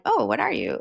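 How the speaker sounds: imitating an excited, interested question; mild mock excitement. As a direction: ask it with light, friendly excitement, not derogatory. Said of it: "like excitement".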